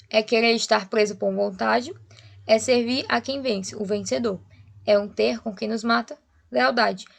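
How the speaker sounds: measured verse reading, pausing at line ends; poem recitation. Acted. Teacher reading the sonnet aloud, measured recitation. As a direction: recite each verse deliberately.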